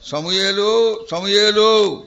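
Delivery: a gentle, affectionate call of the name; loving call. Acted. God calling the boy Samuel, tender and loving. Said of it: "దాంట్లో దేవుని యొక్క ప్రేమ, ఆప్యాయత".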